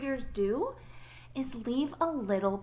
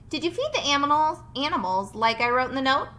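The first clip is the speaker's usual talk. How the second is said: louder, quick Farmer Brown; 3 semitones higher, 4 dB louder, faster than usual. Acted. Farmer Brown phoning home asking Bob about the animals. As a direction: ask it quickly and loud.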